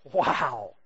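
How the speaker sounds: low, drawn-out wow of realization; awestruck wow. Retold or imitated. Preacher reacts to the story hitting home, awestruck. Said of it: "and I'm just like".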